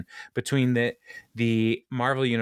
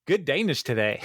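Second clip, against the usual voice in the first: put-on old man voice; 10 semitones higher than usual. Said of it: "He's like".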